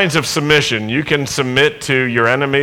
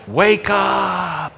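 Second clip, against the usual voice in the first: building, ever higher and louder calls; loud wake-up call; 8 semitones higher, 4 dB louder, slower than usual. Shown as a demonstration. Congregation told to wake their neighbour, loud building calls. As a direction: rouse your neighbour in a good loud voice. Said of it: "tell them in a pretty loud voice, don't yell".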